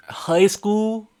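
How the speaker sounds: high, disbelieving squeal; shocked disbelief at the news; incredulous. Real, not acted. Shocked reaction to dropout news.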